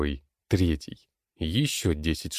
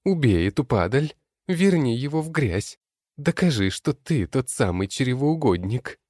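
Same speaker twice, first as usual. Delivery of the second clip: gleeful shriek; 8 semitones higher than usual. Acted. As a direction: egg him on, shrieking. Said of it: "кричит с дерева лень".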